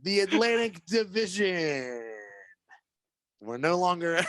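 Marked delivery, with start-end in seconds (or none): 0.0-2.0 laughing. Real, not acted. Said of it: "Okie dokie".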